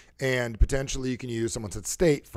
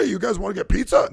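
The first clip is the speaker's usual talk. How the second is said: loud, higher New York voice; imitated New York talk; 7 semitones higher, 6 dB louder than usual. New Yorker offering his passengers pizza, loud New York accent. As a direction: holler it like a New York guy. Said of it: "That's how he talks".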